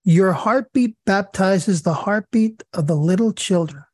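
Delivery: slow, solemn prayer read with long pauses. Acted. Leading the sisters in a closing prayer, slow and solemn. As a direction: pray it slowly and reverently, letting each phrase settle.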